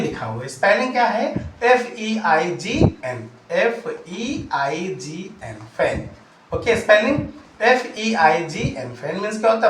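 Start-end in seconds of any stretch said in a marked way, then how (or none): 3.5-6.1 whispered spelling. Shown as a demonstration.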